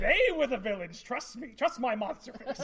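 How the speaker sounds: lightly voiced sinister emperor; a hint of a creepy villain; scary Palpatine voice. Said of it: "and my scary voice".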